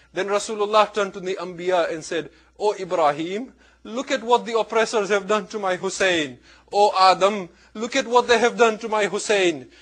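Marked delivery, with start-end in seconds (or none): 2.6-9.7 raised, building cry of grief; crying appeal. Retold or imitated. Rasulullah crying to the prophets, retold as rising appeal. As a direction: appeal to each prophet, growing louder and higher. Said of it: "Rasulullah began crying".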